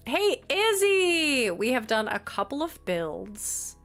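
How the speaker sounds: ordinary delivery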